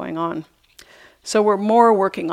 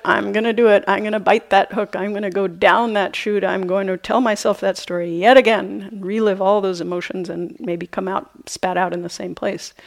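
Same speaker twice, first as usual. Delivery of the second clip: eager compulsive voice; 4 dB louder than usual. Retold or imitated. Mind's compulsive voice in joke.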